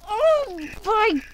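high, slow, loud shriek. Real, not acted. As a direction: shriek it out in shock. Friend falls in game.

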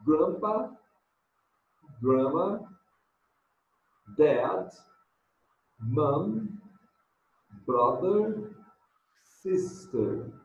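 careful teacher's model of English words; model pronunciation. Shown as a demonstration. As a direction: clear slow English model words for class to repeat. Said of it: "Repeat after me".

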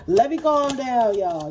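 catching herself and calming down. Real, not acted. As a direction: pull back from the rant.

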